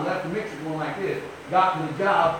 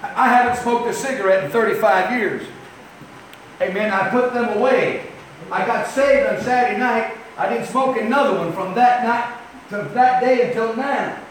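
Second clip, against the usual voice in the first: raised, emphatic preacher's voice; forceful preaching; 6 semitones higher, 5 dB louder than usual. Real, not acted. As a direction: preach it out, pitched up.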